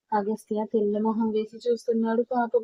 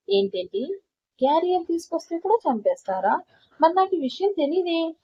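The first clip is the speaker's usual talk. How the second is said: higher, mocking sarcasm; sarcastic; 5 semitones higher than usual. Son mocking his father's accusation, higher sarcastic tone. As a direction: needle him with mock surprise. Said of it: "అన్నాడు అగస్త్య వెటకారంగా".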